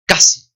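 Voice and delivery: "Casi" with a loud punched k; "Casi" as a crisp model word; hard K. Shown as a demonstration. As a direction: hit "Casi" hard on the first syllable. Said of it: "La C o la K se pronuncian como".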